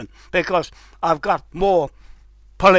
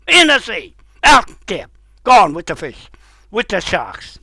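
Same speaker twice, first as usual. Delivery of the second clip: angry rant; 3 semitones higher, 3 dB louder than usual. Real, not acted. Rant building at Trump, Seymour.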